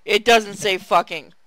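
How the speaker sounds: loud protest. Real, not acted. Friend protests the fanfic text.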